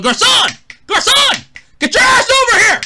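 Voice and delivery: high, loud mock call across a restaurant; calling the waiter. Summoning an imaginary waiter for football, a loud mock call. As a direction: snap for the waiter and holler. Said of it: "snapping my fingers to get the waiter's attention and going".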